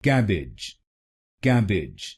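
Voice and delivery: कैबेज said kebedge, open e first; joined word kebedge; correct pronunciation. Shown as a demonstration. Teacher putting the syllables together. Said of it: "तो बनेगा".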